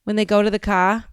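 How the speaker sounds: brisk Boston accent with R's dropped. Shown as a demonstration. Explaining to the chat, slipping back into Boston accent. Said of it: "like, Boston sound like".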